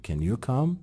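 "Can" said as short "ken"; weak kasre vowel in "Can"; reduced "can". Shown as a demonstration. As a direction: say "Can" like "ken", question rising.

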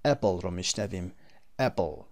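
"able" said uh-bull, as a suffix; short-vowel "able". Shown as a demonstration. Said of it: "صدای".

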